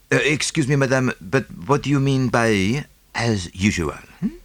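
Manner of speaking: calm her down, measured and precise; soothing Belgian detective. Acted. Poirot voiced.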